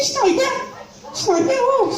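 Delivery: high, plummy posh lady voice; posh society lady greeting the jobseeker. Retold or imitated. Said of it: "She said".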